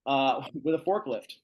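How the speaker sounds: small laugh mid-phrase; lightly amused, laughing a little; real chuckle. Real, not acted. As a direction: let a chuckle slip out while explaining. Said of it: "I'm laughing at this photo".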